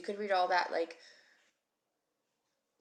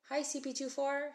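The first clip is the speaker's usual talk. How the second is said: cheerful hello; 7 semitones higher than usual. Real, not acted. Greeting a student by username.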